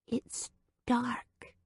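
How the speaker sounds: high unvoiced child whisper; recalled baby voice whisper. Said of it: "whispered in a baby voice".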